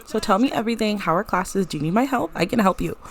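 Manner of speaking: eager sister. Acted. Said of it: "She's like".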